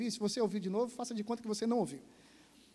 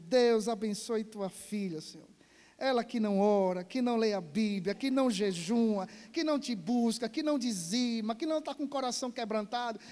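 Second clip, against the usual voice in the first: fervent prayer; 3 dB louder than usual. Acted. Pastor prays over the woman.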